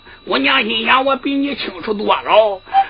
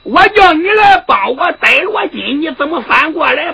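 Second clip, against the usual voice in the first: angry; 3 semitones higher than usual. Acted. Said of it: "气的哇哇怪叫".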